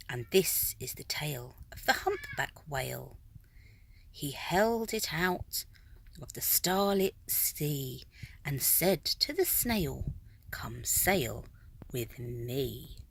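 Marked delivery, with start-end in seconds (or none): 0.1-3.2 quick hushed whisper. A narrator's reading. Narrator introducing the whale to listeners, in a whisper. 10.5-13.0 soft invitation. A narrator's reading. Whale invites snail.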